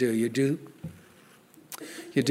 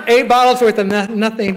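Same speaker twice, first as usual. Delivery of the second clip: louder and higher, laughing through it; laughing confession; 6 semitones higher, 4 dB louder than usual. Retold or imitated. Telling the room about his Robitussin: loud laughing. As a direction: crack up at your own lie. Admitting absurd denial.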